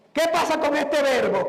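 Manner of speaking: ordinary talk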